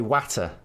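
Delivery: water with a flat a, as in cat; water said wat-er, short a vowel; third water. Shown as a demonstration. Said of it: "three different ways".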